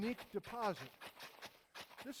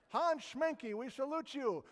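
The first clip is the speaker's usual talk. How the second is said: high, louder tribute; rousing salute; 5 semitones higher, 4 dB louder, slower than usual. Real, not acted. Lecturer honours the German volcanologist after his beer story, rousing salute. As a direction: proclaim it like a toast.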